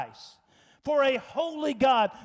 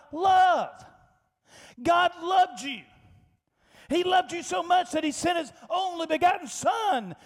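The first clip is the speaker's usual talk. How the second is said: fervent exhortation; 4 semitones higher, 4 dB louder than usual. Real, not acted. Preacher exhorting congregation loudly.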